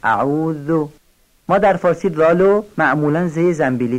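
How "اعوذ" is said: tongue tip between teeth on the ذ of اعوذ; light tongue-tip ذال. Shown as a demonstration. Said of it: "نوک زبانی نازک".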